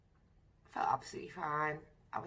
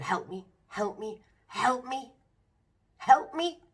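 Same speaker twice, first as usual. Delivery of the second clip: retold plea for help; 5 semitones higher, 4 dB louder, slower than usual. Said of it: "getting onto the manager and going".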